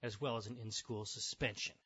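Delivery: measured TV reporter delivery; earnest newscast narration; news report read. Acted. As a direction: read it like a local news feature. Reads news article aloud.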